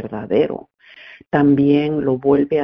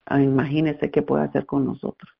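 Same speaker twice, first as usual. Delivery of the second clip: Spanish with an American accent; effortful American-accented Spanish. Real, not acted. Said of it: "por mi español tan pateado".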